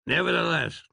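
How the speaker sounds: ordinary delivery, nothing marked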